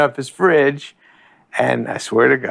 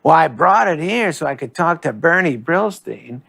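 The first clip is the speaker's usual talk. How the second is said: higher, laughing mock Norm voice; a light send-up of his deadpan; imitating Norm; 4 semitones higher than usual. Sandler quoting Norm's tax plan, higher and amused. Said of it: "He goes, um".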